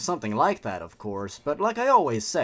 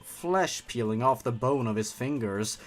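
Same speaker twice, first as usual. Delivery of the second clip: horror story narration. A narrator's reading. Reads horror story aloud.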